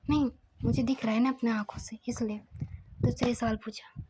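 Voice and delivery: soft, half-whispered telling; hushed storytelling. Acted. Narrator telling the grandmother's questioning of Siddharth, softly hushed.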